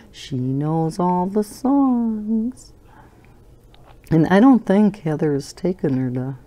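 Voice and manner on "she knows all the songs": whispered aside. Real, not acted. Grandma fondly aside.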